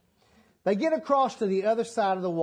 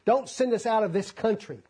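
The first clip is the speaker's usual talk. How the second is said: pleading demons; 3 semitones higher than usual. Acted. Preacher voicing the demons begging Jesus, lightly pleading. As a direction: beg not to be sent away. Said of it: "the unclean spirits have answered back".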